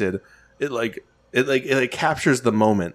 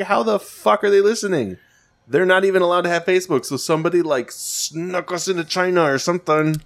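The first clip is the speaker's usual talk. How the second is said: incredulous; 7 semitones higher than usual. Retold or imitated. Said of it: "I was like".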